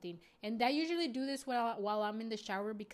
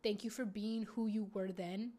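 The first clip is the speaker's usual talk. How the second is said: put-on tender talk to inner child. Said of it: "I'll talk to her and I'll be like".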